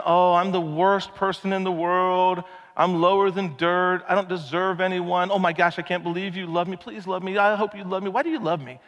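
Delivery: lightly hammed-up self-loathing plea; groveling self-pity. Preacher mocking a groveler with mild whining. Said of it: "not demeaning yourself or groveling".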